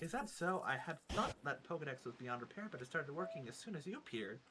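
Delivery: lilting, theatrical storybook voice; genteel game character. Acted. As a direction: play a chatty, courteous Pokemon character. Reads game character's dialogue.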